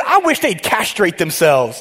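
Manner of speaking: slow, amused read breaking into a laugh; can't keep a straight face reading it; laughing through it. Real, not acted. Pastor laughing at the blunt verse wording.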